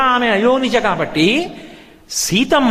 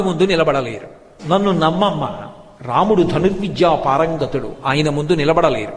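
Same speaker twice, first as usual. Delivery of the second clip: measured reassurance, gradually settling lower; calm, unhurried; 3 semitones lower than usual. Acted. Lakshmana reassures Sita that Rama is invincible, calmly. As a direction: reason with her patiently and calmly. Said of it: "ఆయన చాలా నిదానంగా అన్నాడు".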